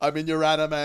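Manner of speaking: hammed-up holler to the boys; imitating group-chat announcement. Host mimicking the actor teasing fans, hammed-up loud announcement. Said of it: "like sending a group text message going".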